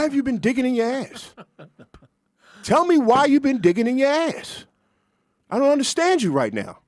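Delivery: worried and pleading, rising toward the end; concerned. Pretend. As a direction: sound truly worried for him, building up. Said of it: "say it in a concerned way".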